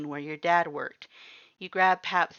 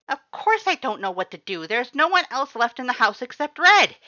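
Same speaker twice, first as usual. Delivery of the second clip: high, loud flustered voice; panicked Butch; 8 semitones higher, 10 dB louder than usual. A narrator's reading. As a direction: blurt it out in panic.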